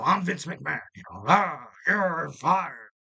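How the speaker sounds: badly faked wrestling boss growl; Vince McMahon. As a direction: do a rough, half-hearted boss impersonation. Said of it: "that was probably a bad Vince impersonation".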